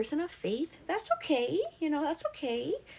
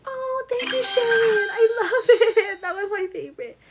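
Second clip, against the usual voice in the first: high, loud laughing thanks; 12 semitones higher, 12 dB louder than usual. Real, not acted. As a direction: gush and laugh.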